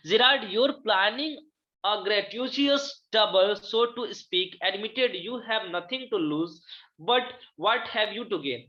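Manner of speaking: slow, deliberate reading aloud of a drama line; slow classroom reading of the play. Acted. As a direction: read each word out slowly for the class. Teacher reads the play aloud.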